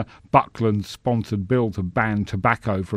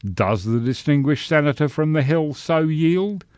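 mouth full; 6 semitones higher than usual. Acted. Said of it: "recited around his tomato sandwich".

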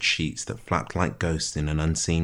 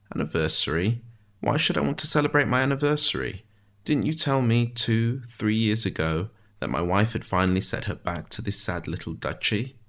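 precise figure, questions lifting higher then sinking; wry prisoner, puzzled; 5 semitones higher than usual. Acted. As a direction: query it with wry disbelief. Ishmael, puzzled and bitter.

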